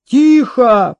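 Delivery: lightly rasped, forceful hush; wheezing. A narrator's reading. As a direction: silence her with an effortful croak. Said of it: "прокрепел солдат". (хрипло, с усилием)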